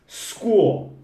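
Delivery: School. starting straight on S, no E before it; correct school. Shown as a demonstration. Teacher having students repeat School. with no E. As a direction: give them a clean School. to copy. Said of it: "Treina comigo aí".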